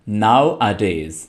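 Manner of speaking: nowadays run together as a single word, slow; one word, slowly. Shown as a demonstration. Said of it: "ये एक ही word है".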